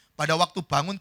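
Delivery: normal talking voice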